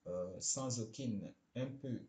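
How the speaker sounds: halting line-by-line reading, slow in places; poem read aloud. Real, not acted. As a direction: read out the poem in short, separated phrases. Reads out generated poem. (lecture de poème, hachée et posée)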